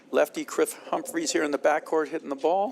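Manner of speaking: commentary tipping up at the end; high voice inflection. Real, not acted. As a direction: end rising like a question. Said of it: "like, a high voice inflection".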